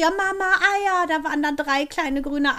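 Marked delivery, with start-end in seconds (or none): 0.0-1.1 drawn-out, higher retold call for mum; imitated long, high-pitched call across the garden; retold cry. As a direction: mimic dad calling out, stretching the words. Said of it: "Papa schrie".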